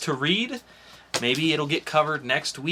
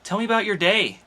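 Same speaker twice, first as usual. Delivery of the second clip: higher, louder teasing invitation; flirty Clarice; 6 semitones higher, 4 dB louder, faster than usual. Acted. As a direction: lure him in playfully.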